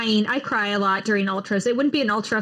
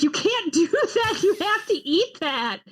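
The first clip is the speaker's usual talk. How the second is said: quoting the pacer through laughter, high; laughing through a quote; 8 semitones higher than usual. Retold or imitated. Retelling a pacer who scolds her for spitting out pancake, laughing.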